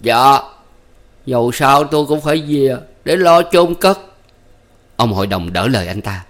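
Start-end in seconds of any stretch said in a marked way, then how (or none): 0.0-4.0 polite. A narrator's reading. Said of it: "lễ phép trở lại".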